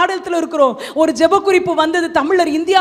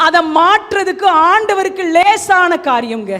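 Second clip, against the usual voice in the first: full-voiced, ringing proclamation; impassioned preaching; 3 dB louder than usual. Real, not acted. Preacher promising a changed life to worshippers, impassioned. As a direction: proclaim the promise with driving force.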